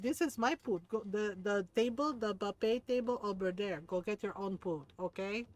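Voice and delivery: scolding in an imitated Filipino accent; Filipino mom accent. Mom scolds a rude food-grabber, imitated Filipino accent. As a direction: put on a Filipino mother's accent, indignant.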